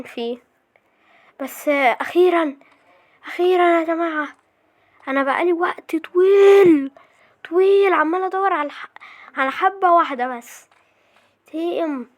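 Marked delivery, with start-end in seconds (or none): 1.7-10.7 triumphant relief. Real, not acted. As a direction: stretch it out in happy exasperation. Celebrates end of long search.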